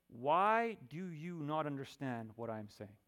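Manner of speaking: drawn-out, slow "why"; mildly exasperated appeal to the listeners; pleading exasperation. Acted. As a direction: ask slowly, straining to get through. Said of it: "color in his voice".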